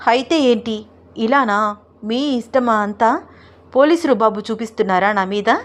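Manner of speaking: lightly voiced wife in mock huff; mock indignant wife. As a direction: pretend outrage at him, half laughing.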